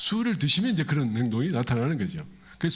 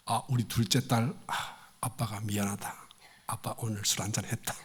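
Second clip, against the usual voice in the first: softer, sheepish apology from a tipsy father; drunk dad's soft apology; 6 semitones lower, 6 dB quieter than usual. Retold or imitated. Father home drunk apologizing to daughter, soft and sheepish. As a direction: coax the daughter gently, a bit tipsy.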